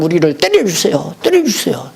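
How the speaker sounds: mock tearful begging for punishment; pleading students. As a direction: students kneeling, begging the teacher to hit them. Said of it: "울고 불고 하면서".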